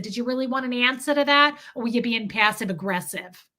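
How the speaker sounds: lightly bitchy Brooklyn retort; put-on Brooklyn accent. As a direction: challenge him in mock Brooklyn. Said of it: "I switched it up to a Brooklyn accent".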